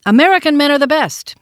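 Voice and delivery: put-on high, loud boy's proclamation; child declaring. A narrator's reading. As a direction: declare it proudly as a small boy. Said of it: "he declared".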